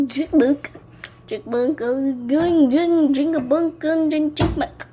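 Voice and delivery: high, loud squeaky chipmunk voice. Real, not acted. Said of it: "I sound like a chipmunk".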